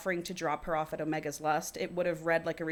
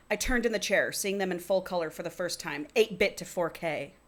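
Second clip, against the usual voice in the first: reading a novel aloud; story narration. A narrator's reading. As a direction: read it out as first-person fiction. Reads the book aloud.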